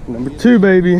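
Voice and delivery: loud triumphant call over the catch; excited cheer. Real, not acted. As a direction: shout it out proud of the fish. Celebrates catching second fish.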